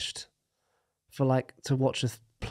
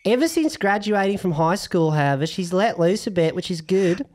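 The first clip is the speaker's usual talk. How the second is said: lightly put-on, jokey Australian accent. Host reads listener Lara's question aloud, in a mock Australian accent. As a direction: read it like a bad Aussie impression. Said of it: "I'm gonna read it in my Australian accent".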